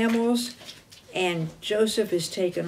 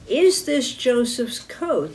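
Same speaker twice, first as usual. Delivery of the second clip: "Is this Joseph's coat" drawn out slowly as a question, pitched up; 4 semitones higher, 3 dB louder, slower than usual. Retold or imitated. Brothers deceiving their father, "Is this Joseph's coat" as a slow, higher question. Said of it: "They ask it in a question".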